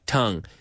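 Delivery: "tongue" said alone, rhyming with "hung"; pronunciation demo. Shown as a demonstration. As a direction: model "tongue" with its short uh vowel. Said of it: "it rhymes with tongue".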